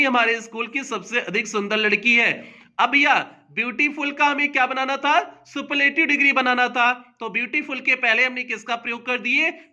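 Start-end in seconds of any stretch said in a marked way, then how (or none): none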